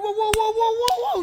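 very high, loud mock yelling; hammed-up comeback in a shouting match. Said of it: "So I raised my voice".

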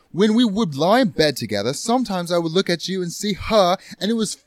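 disgusted. Acted. Acted quarrel, disgusted confession.

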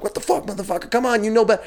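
a touch of indignant anger; mock exasperated outburst. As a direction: retell a mild blow-up at a rude stranger. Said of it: "So I'm like".

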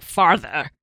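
put-on "farther" in an overdone American accent with rounded vowels; mock American "farther", every vowel rounded off; over-rounded vowels. Mimicking Brits attempting American, "farther" with over-rounded vowels. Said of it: "they have to round off every single vowel".

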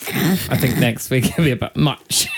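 slow, giggly stab at Yorkshire; attempted Yorkshire accent. Shown as a demonstration. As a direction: hopelessly copy a Yorkshire accent. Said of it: "I haven't a clue".

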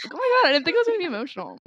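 rushed, high, tearful surprise as feelings catch her off guard; suddenly emotional. Real, not acted. Podcast host caught off guard by her own feelings, tearful rush. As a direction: voice jumps up and hurries as tears come. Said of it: "I'm gonna get emotional".

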